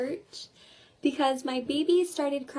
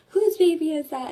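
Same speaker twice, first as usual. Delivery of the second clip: louder, lightly imitated upset demand; retold upset; 3 semitones higher, 6 dB louder than usual. Coordinator seeing the baby at church, retold as upset. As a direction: mimic someone taken aback, a bit louder. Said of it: "she got so upset".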